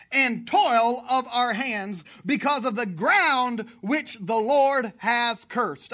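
slow, emphatic, declaimed verse; scripture reading. A narrator's reading. Preacher reading Noah's father's words, solemnly declaimed. Reads a Bible verse aloud.

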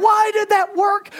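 baffled it actually worked; amazed. Real, not acted. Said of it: "amazed it worked".

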